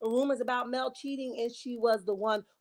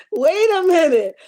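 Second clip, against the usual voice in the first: loud, high, drawn-out disbelief; surprised; 7 semitones higher, 14 dB louder than usual. Real, not acted. Host stopping mid-sentence at a funny chat comment, astonished. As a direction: stop everything in amazement. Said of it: "reacting to a chat comment".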